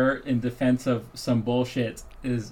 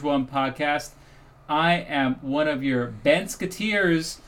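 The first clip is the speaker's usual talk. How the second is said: podcast intro. Acted. Podcast host reads intro.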